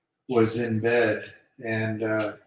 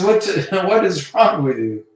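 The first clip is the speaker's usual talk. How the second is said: higher, louder woman's voice, lightly hammed; bewildered woman; 7 semitones higher, 6 dB louder than usual. Woman to her lover singing under the covers, mock bewilderment. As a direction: imitate a baffled lover, pitched up. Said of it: "And she says".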